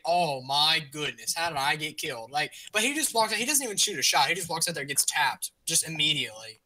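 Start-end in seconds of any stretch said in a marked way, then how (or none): 0.1-2.3 suggested mild reaction. Shown as a demonstration. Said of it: "Or just say".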